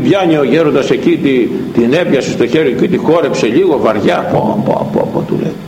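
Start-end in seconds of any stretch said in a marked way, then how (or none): 4.3-5.5 hushed admiration. Acted. Elder weighing the chain admiringly.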